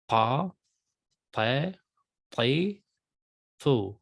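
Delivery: "Pa, pe, pli, fu" said as ta, te, ti, tu with the Semitic emphatic T. Shown as a demonstration. Teacher demonstrating a sound not used in English, emphatic T. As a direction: open each syllable on a heavy emphatic T, not English T. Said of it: "we'll call it an emphatic T".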